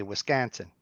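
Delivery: Wisconsin with the middle vowel turned almost to an A; Wisconsin, vowel nearly an A. Shown as a demonstration. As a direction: say Wisconsin the local way, leaning to an A. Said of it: "almost an A".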